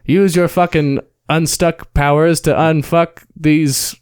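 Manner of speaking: a touch of a porn-scene damsel. Retold or imitated. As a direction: ham up a porn actress line. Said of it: "she's like".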